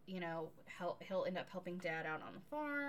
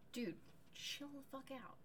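exasperated mother; 6 semitones higher, 7 dB quieter than usual. Retold or imitated. Voicing exhausted mother to husband.

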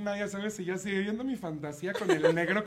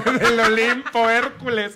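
imitated lover; 10 dB louder, much slower than usual. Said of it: "me decía".

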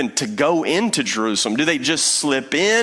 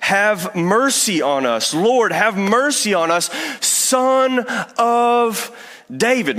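raised, pleading cry of the blind men; crying out for mercy; 5 semitones higher than usual. Retold or imitated. Blind men beg Jesus for mercy as he passes, pleading cry. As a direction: call out to Jesus, begging, pitched up. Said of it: "they cry out".

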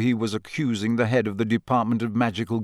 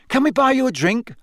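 bright; 13 semitones higher, 4 dB louder than usual. A narrator's reading. Fred cheerfully offering a drink.

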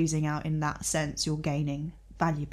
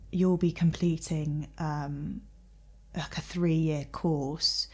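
slow, hushed mystic voice; softer, slow prophetic delivery; tarot reader; 5 dB quieter, much slower than usual. Retold or imitated. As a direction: draw it out like a fortune teller. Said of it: "this tarot reader goes".

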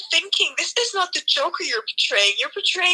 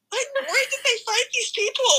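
laughing; 9 semitones higher than usual. Real, not acted. Laughing at the cast.

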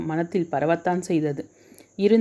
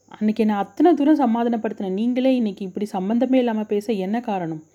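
anxious pleading; 3 semitones higher than usual. Acted. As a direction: plead with him, worried and rattled. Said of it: "தவிப்புடன் கேட்டாள்". (தவிப்புடன், பதற்றமான குரல்)

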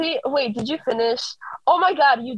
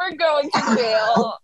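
slow, wailing mock sob; slower than usual. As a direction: wail it like a fake breakdown. Panicking over underage crush.

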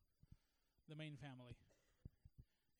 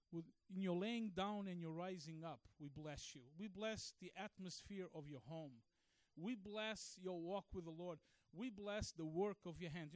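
spoken blessing prayer. Shown as a demonstration. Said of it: "take the opportunity to say".

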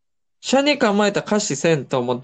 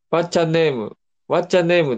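katakana English; much slower than usual. Retold or imitated. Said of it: "でもカタカナで".

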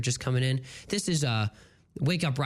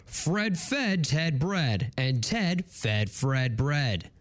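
news anchor; slower than usual. Pretend. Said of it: "you gotta say it like a news anchor".

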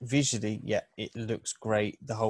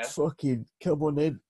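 exaggerated Cockney tough-guy accent; mock the actor's forced Cockney; forced Cockney hard man; 4 semitones higher than usual. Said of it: "the most forced Cockney hard man accent".

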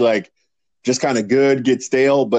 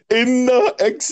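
higher, slow mock Italian accent; Italian accent imitation; 12 semitones higher, much slower than usual. Cohost mimicking his friend's Italian accent, higher and slow. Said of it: "But you're like".

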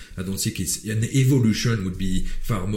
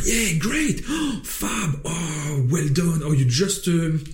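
mock gushing officials. The government faking delight at the protesters, hammed-up gushing. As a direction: overdo the delighted praise, hammed-up. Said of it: "are like".

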